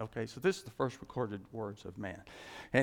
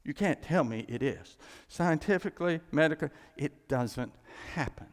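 insistent; 3 semitones higher than usual. Retold or imitated. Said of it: "I said".

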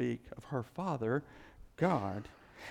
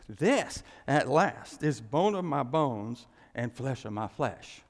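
ecstatic Adam; 5 dB louder, slower than usual. Acted. Preacher voicing Adam's first words.

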